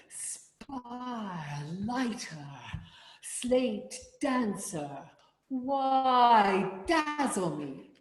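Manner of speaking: slow, drawn-out recited line; spoken with feeling. Shown as a demonstration. Choir leader reciting the lyric with feeling. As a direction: savour each word of the lyric. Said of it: "it won't be when you're singing".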